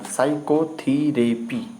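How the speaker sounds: साइकोथेरेपी said slowly, syllable by syllable, p silent; slow pronunciation. Shown as a demonstration. Teacher models साइकोथेरेपी for students, slow. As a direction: stretch out साइकोथेरेपी. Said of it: "इसमें पी silent रहता है".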